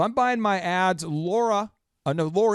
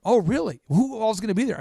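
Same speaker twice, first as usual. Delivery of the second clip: higher, lightly imitated Minnesota accent; mock Minnesota questioning, voice raised; 5 semitones higher than usual. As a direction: quote her with a Minnesotan lilt, pitched up. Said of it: "she's from Minnesota".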